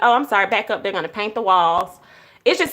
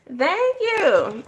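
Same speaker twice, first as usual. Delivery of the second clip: tearful thanks; 8 semitones higher than usual. Real, not acted. Emotional thanks.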